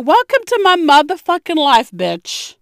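loud, high gloating welcome; mock triumphant. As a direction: rub it in, loud and gleeful. Mocking pregnant friend who struggles.

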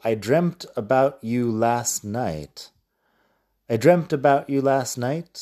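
I dreamt about you last night, said slowly and clearly; slow model sentence. Shown as a demonstration. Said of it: "Luego tengo".

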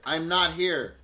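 lightly voiced stately actor fumbling; a hint of Patrick Stewart denying he's home; Patrick Stewart impression. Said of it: "You sound exactly like Patrick Stewart".

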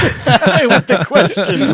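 slow, high mock complaint; mock whiny voice. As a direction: whine it slowly, teasing. Mocking interrogation banter.

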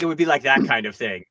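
ordinary delivery

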